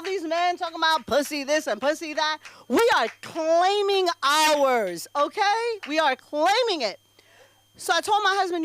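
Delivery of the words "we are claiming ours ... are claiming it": slow, stretched proud proclamation; proud declaration. Acted. To the audience about women claiming theirs, slow proud rally cry. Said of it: "empowerment chant".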